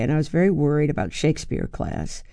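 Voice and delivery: normal talking voice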